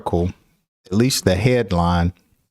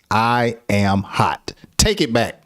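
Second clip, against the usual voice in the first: slow irritated demand. Shown as a demonstration. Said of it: "express anger is just to say".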